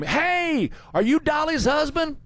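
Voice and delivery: high-pitched mock holler, no real volume; hollering fans. Fans calling out to a man on his tractor, mock holler. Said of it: "they would holler at him".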